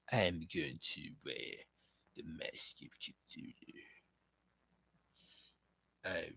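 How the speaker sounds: eerie low whisper. Retold or imitated. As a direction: breathe the threat in a menacing whisper. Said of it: "my Lucy Wilde impression".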